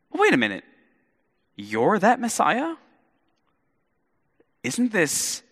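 high, slowed double take; doubting crowd. Retold or imitated. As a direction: catch yourself mid-praise and start to doubt. Crowd starts doubting Jesus.

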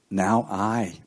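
"I" set apart and drawn out; deliberate weight on "I"; stress on I. Shown as a demonstration. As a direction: lean on the word "I". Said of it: "may I emphasize the word I".

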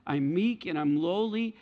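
a hint of meek, lowly tenderness; gentle Jesus. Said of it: "I'm gently coming into your heart".

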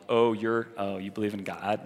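mildly mocking a superior skeptic; low-key, lofty disdain, put on; lofty, condescending. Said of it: "Always so lofty".

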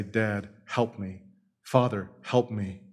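put-on a child quietly begging Dad for help; pleading child. Child calling to father.

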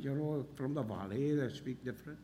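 a hint of a quiet Welsh lilt; Welsh accent. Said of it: "in our Welsh accent".

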